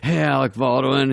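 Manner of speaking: Chris Farley. Retold or imitated. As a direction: imitate a panicky pitcher stalling. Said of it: "he's, like, having a heart attack".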